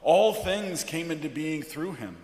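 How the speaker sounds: measured, weighty liturgical reading; solemn scripture reading. Acted. Pastor reading John's prologue from the pulpit, solemn.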